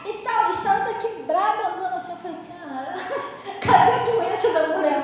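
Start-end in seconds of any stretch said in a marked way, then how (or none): 2.5-5.0 laughing disbelief. Retold or imitated. Retells her amazement laughing.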